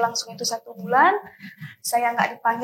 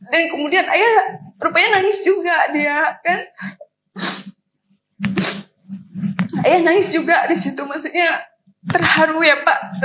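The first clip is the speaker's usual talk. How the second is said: crying; 3 semitones higher, 4 dB louder than usual. Real, not acted. Tells how her father cried.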